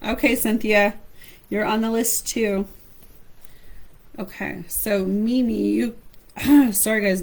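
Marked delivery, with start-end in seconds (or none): 4.2-6.0 losing her voice, hoarse and slow; strained, hoarse throat. Real, not acted. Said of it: "losing my voice".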